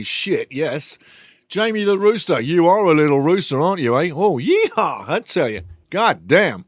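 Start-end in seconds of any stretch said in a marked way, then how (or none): none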